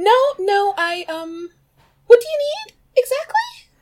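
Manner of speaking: voice shoots up very high, flustered. Replying in character to an apology for overstepping, in a high-pitched voice. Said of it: "your voice just went all kind of high pitched".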